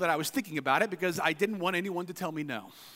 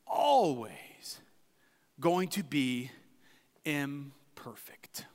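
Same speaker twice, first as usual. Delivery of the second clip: whisper; 7 semitones lower, 4 dB quieter, much slower than usual. Acted. Sermon climax, voice drops to whisper.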